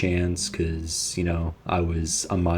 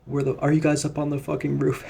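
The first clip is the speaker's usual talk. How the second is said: higher-pitched mock manager yelling; angry manager; 8 semitones higher, faster than usual. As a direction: imitate the boss calling them out, pitched up. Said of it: "I hear my manager going".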